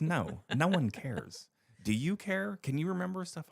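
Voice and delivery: high, emphatic imitation of the therapist; mock blunt rebuttal.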